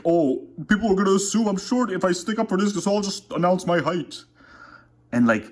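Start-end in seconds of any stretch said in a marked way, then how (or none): 0.0-4.2 mocking anon. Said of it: "it's like".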